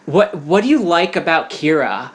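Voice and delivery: lightly mocked Valley Girl; a touch of Valley Girl lilt; Valley Girl accent. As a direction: imitate a Valley Girl caller, not too broadly. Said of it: "it's like that Valley Girl accent too".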